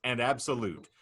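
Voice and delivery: deliberate, mock-grave narrator hitting key phrases hard; dramatic scenario reading. Real, not acted. Host unfolds the Canadian football future to laughing guests, dramatic narrator. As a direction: announce each absurd detail with ceremony. Reads out the hypothetical.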